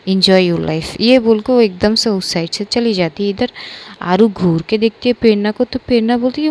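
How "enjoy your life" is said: "enjoy your life" said lower and flat-toned, bitter; cold bitter repeat. Acted. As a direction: drop the voice and throw it away. Repeated jab, walking away. (धीमी नीची कड़वी आवाज़ में "enjoy your life")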